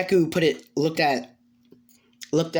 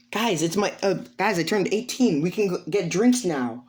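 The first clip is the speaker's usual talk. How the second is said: put-on higher, eager young voice; bubbly, higher-pitched news-breaking; excited announcement; 5 semitones higher than usual. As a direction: share big news eagerly with friends. Character announces birthday, drinks.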